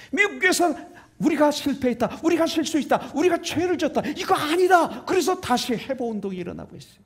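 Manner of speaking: high, urgent pulpit delivery; impassioned preaching. Real, not acted. Preacher decries short worship.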